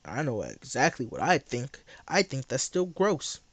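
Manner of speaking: talking while chewing gum. Real, not acted. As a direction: gum in the mouth. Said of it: "I didn't have gum in my mouth".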